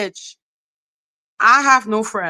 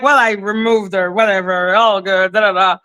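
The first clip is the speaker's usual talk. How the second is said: low, offhand imitation; imitating a careless dismissal; mock frivolous; 3 semitones lower than usual. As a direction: shrug it off, trailing into da-da-da. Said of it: "you being that frivolous and".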